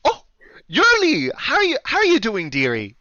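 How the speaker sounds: high, delighted Canadian innkeeper; Canadian accent. Acted. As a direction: greet an old acquaintance in high Canadian tones. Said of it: "deal with the accent".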